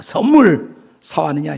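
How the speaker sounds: mild mock yell of a child; imitated child's shout. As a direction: call out like a child demanding a present. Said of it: "저를 보면 소리칩니다". (아이가 소리치듯 흉내 내며)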